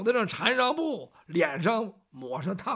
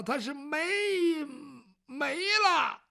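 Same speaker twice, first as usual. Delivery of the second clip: 带着哭腔，话说不全; 委屈地边哭边挤出字来; 哭腔结巴; 5 semitones higher, slower than usual. Acted. 门栓结巴着说银子没了. (带哭腔，结结巴巴)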